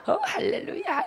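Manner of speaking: very high, squealed hallelujah; mock rejoicing. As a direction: imitate an overjoyed sister praising God. Sister rejoices at his offer, acted.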